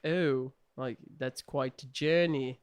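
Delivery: slow, mildly stilted line reading; terrible impersonation. Retold or imitated. Mocking an actor's weak delivery, slow terrible impersonation. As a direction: lightly mimic stiff voice acting. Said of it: "I was doing a terrible impersonation of him".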